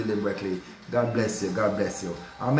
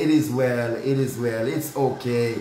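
cheerful forgiving; 2 semitones lower than usual. Shown as a demonstration.

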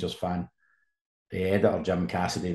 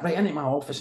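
mock angry order; 7 semitones higher than usual. Manager shouting order.

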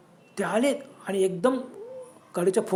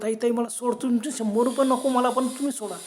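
higher-pitched, contained cry for release; pleading cry; 3 semitones higher than usual. Acted. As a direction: plead to be let go, half-shouting. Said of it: "मोठमोठ्या ओरडला". (विनवणीचा दबका आरडाओरडा)

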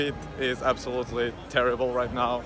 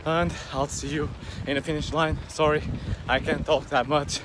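while running. Real, not acted. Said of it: "I'm getting a bit out of breath".

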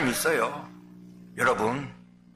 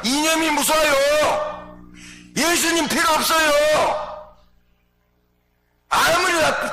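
emphatic preaching shout; 8 semitones higher, slower than usual. Real, not acted. Pastor warning the congregation, slow high emphatic shout. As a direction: thunder it from the pulpit, slowly. Preacher hammering home a point.

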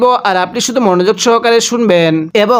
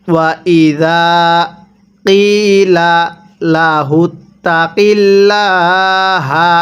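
slow, drawn-out tajweed chant; Quran recitation; much slower than usual. Shown as a demonstration. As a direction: recite it slowly, stretching the vowels. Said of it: "আরেকবার আমার সাথে পড়বেন". (ধীরে টেনে কুরআন তিলাওয়াত)

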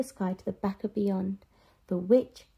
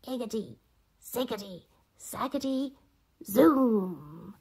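muttered spell; slower than usual. Acted. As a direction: mutter the magic words. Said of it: "she muttered a spell".

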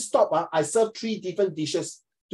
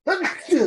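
sneeze; 13 semitones higher, 4 dB louder than usual. Real, not acted. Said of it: "Sorry, I'm sneezing".

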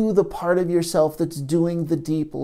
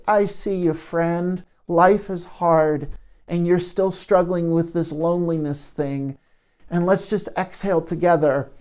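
observer self soothing. Shown as a demonstration. Observer self soothing the lonely part, gentle. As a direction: ease the hurt gently. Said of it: "come into observer self and say".

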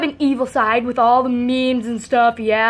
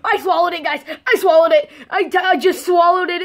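shocked laughing; 4 semitones higher than usual. Real, not acted. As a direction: burst out with a startled laugh. Reacts to swallowing the pancake.

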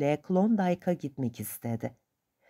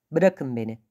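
a mild, menacing snarl, a touch louder; threatening growl; 3 semitones lower, 4 dB louder than usual. Acted. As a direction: warn him off, half-growled. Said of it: "diye hırladı kürekçi, gözdağı verircesine". (hafif tehditkâr bir hırlama)

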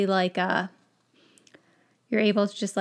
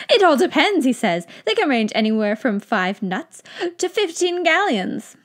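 louder, a bit higher pricing; excited wizard; 4 semitones higher, 5 dB louder than usual. Acted. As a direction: quote prices eagerly.

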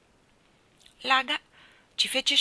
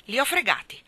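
outburst higher and louder, with a fist on the table; grido furioso; 5 semitones higher, 6 dB louder than usual. A narrator's reading. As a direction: bellow it like an angry lord. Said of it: "urlò Laga". (urlo furioso)

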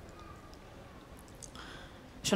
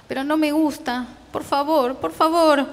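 desperate begging; 7 semitones higher than usual. Acted. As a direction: beg father, voice climbing with each plea. Child begging father.

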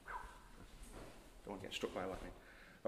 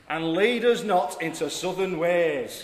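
slow, loud, laughing Yorkshire; Yorkshire accent; 5 semitones higher, 12 dB louder, slower than usual. Acted. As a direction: intone slowly through laughter in Yorkshire. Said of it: "In a Yorkshire accent".

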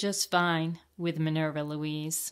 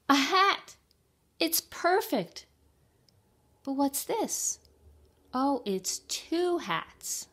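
high, loud hen character, whispering at first; a little hen thrilled to find hats; high hen voice, slowing at the end; delighted hen; 8 semitones higher, 5 dB louder than usual. Acted. Hen voice for long run.

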